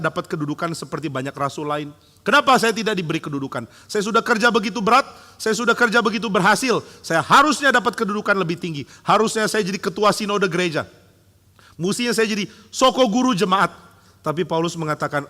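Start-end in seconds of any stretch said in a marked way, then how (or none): 2.2-13.7 proud complaint. Acted. Imagined proud complaint for position.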